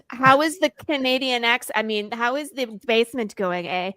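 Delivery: lightly put-on Canadian accent. Host asking about basement renovations, mock Canadian accent. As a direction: attempt your best Canadian accent. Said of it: "best Canadian accent".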